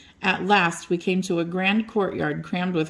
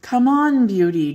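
loud, high urging call to the horse; John urging his horse loudly on the bridge; 6 semitones higher, 6 dB louder than usual. A narrator's reading. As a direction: call him on hard, pitched up. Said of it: "John urged".

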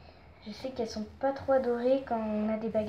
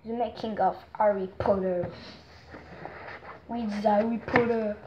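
English words in a French speaker's accent; accento inglese; 2 semitones lower than usual. Shown as a demonstration. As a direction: attempt an English accent, lightly. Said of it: "mon accent anglais est très".

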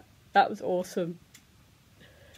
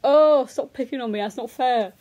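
loud, playful complaint; mock whining protest; 7 dB louder than usual. Viewer moved by an advert, mock protest. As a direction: complain loudly as if picked on. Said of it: "made me get all emotional".

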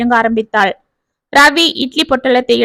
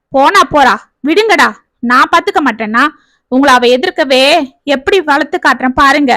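scornful, raised father's voice; angry father; 2 semitones higher than usual. Acted. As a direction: rant at the kids about their mother. Father rages at children about wife.

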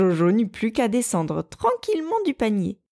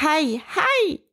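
high, strange groaning "aïe, aïe"; groaning cry; 9 semitones higher than usual. A narrator's reading. Rabbit hiding in cabbages moans to scare the bear. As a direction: moan from inside the basket like a hidden creature. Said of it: "grogna encore Jojo".

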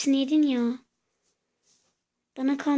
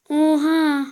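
loud startled oha; shocked gasp; 3 semitones higher, 9 dB louder than usual. Real, not acted. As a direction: blurt it out stunned. Sudden shock.

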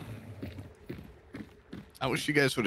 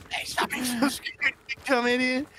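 higher, sharp scolding dad; mock angry dad; 12 semitones higher than usual. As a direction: play a harsh dad mocking a child.

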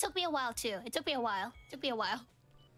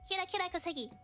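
imitating Kira intro; 7 semitones higher, much faster than usual. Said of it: "what's her intro?".

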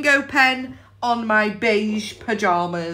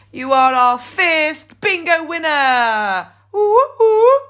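excited; 3 semitones higher, 3 dB louder, slower than usual. Real, not acted. Congratulating the winner.

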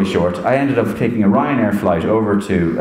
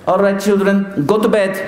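much higher, stern von Trapp father voice; Christopher Plummer as Mourinho; 10 semitones higher than usual. Retold or imitated. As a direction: send the children off to bed like a strict captain. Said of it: "like Christopher Plummer in The Sound of Bed".

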